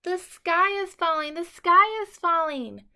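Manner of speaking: high, loud frantic shrieking; panicked scream. A narrator's reading. Scared chick screaming to everyone as he runs. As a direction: shriek it while running in panic. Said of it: "Chicken Little screamed as he ran".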